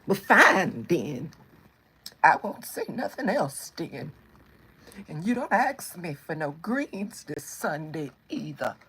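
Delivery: drawn-out fake sulk, lightly voiced; mock offended. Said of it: "Then they gonna reverse psychology and make you feel bad".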